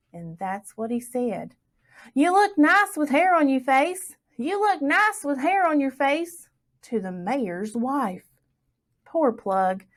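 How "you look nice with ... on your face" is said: cheerful parroting. A narrator's reading. Plug parroting to the mayor's wife.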